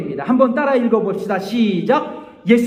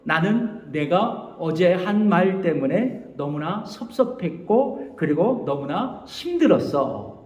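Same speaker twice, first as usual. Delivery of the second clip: gentle I-message; 4 semitones lower, 4 dB quieter than usual. Shown as a demonstration. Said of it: "이런 얘기를 할 수 있다는 거죠".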